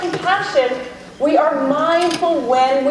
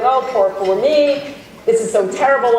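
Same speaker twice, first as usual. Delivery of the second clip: mock self-pity; 3 semitones lower than usual. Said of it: "having a pity party and going".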